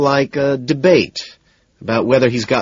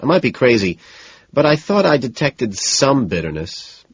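nervous, higher-pitched rambling; 3 semitones higher than usual. Acted. Man giving his date opinions on a show, nervously. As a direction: babble uneasily, hedging as you go. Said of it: "I start nervously".

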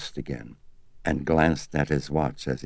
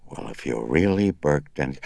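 hoarse. Acted. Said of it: "then spoke hoarsely".

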